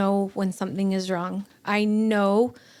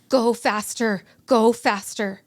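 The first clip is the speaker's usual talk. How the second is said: louder retold plea, punched twice; mildly raised, pressing repeated command; urgent urging; 4 dB louder, slower than usual. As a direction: urge the driver on, insistent. Urging the driver in retold scene.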